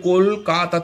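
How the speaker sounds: "কলকাতা" in three distinct beats, কল, কা, তা; teacher's syllable-by-syllable "কলকাতা"; split into syllables. Shown as a demonstration. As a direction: separate each syllable of "কলকাতা". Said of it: "তা তিনটে syllable".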